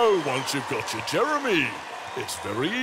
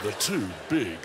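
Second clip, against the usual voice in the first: Jeremy Clarkson impression; 4 semitones lower than usual. Shown as a demonstration. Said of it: "to do Jeremy".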